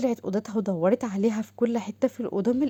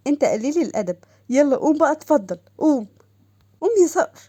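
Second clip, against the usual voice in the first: put-on alarmed girl; 4 semitones higher than usual. Doha voiced, higher.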